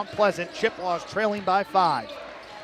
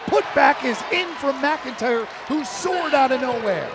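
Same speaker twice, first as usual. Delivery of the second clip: excited call; 4 semitones higher, 4 dB louder than usual. Real, not acted. Call of a putback basket.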